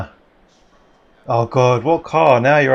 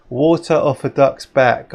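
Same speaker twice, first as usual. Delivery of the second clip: slow saying; slower than usual. Shown as a demonstration. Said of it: "and it goes like this".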